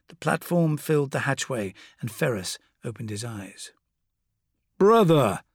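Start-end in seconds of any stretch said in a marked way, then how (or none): 4.8-5.4 warm. Acted. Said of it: "it said warmly".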